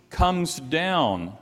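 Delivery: slow, drawn-out "comes down"; key word stressed. Shown as a demonstration. Preacher showing the word used again, stressed "comes down". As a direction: stretch "comes down" to mark the repeat. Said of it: "he uses it again".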